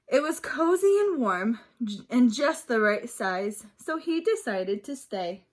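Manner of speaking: put-on reading aloud to young children, lively; storybook reading. A narrator's reading. Teacher reading a picture book to her class, lively. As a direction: bring the story alive for the class.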